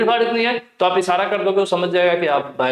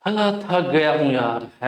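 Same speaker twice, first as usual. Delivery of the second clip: tired sigh; 3 semitones lower than usual. Retold or imitated. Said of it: "बहुत धीरे-धीरे बात कर रहे हो".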